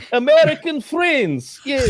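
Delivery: high, slow mock Russian accent; hammed-up Russian accent, pitch way up. Russian posing as a Wyoming local, hammed-up Russian accent. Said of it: "a guy with that accent".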